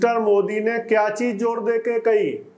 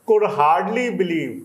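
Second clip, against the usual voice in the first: slow dictation reading; much slower than usual. Shown as a demonstration. Slow reading of the English text.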